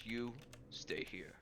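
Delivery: quiet, slow, whispered menace; restrained vampire hiss. Acted. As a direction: hold back a hiss and whisper it. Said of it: "the vampire hiss at you".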